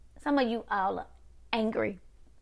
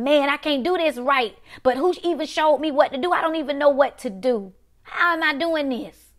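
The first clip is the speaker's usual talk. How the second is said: raised pitch, quick exasperated questioning; frustrated; 4 semitones higher than usual. Acted. Preacher voicing a struggling listener who was never taught, frustrated. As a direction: plead in mild exasperation at not knowing how. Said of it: "every day you're frustrated".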